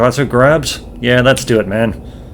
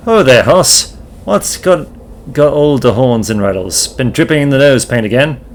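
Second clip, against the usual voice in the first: put-on a light old-West cowpoke voice; cowboy drawl. Gabby greets the dinosaur, light cowboy twang. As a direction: greet him like a dusty ranch hand. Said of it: "Gabby doesn't talk like that".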